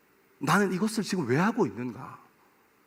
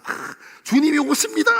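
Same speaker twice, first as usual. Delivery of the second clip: higher and louder, hammed-up party cry; mock drunken hail; 7 semitones higher, 5 dB louder than usual. A preacher mocking drunk revellers hailing the booze, hammed-up. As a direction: hail the drink like a holy arrival.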